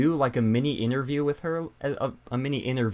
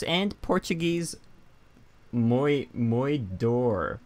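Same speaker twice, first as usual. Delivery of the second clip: higher, louder hammed-up pirate; 6 semitones higher, 4 dB louder than usual. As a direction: ham up a greedy pirate. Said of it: "the worst thing I've ever done".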